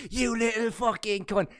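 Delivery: high-pitched imitation of a rant, drawn out; mock shouting. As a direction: mimic someone yelling down the mic without real volume. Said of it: "shouting down the mic".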